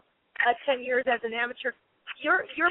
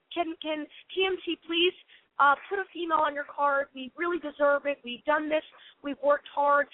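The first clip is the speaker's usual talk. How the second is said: nonchalant monotone. Retold or imitated. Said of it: "I gave that nonchalant, monotone type of approach".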